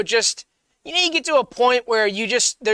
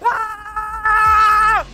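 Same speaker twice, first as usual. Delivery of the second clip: hype shout; 9 semitones higher, much slower than usual. Pretend. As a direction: yell it like you're powered up. Plugged in, hyped up.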